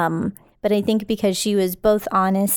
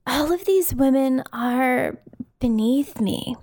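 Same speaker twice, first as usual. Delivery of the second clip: Crystal impression; 3 semitones higher, slower than usual. Shown as a demonstration. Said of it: "give you a couple runs at it".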